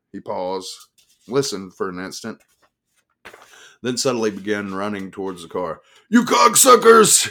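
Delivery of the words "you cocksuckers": slow, very loud, very high scream. A narrator's reading. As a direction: scream it back while running off. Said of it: "he screamed over his shoulder".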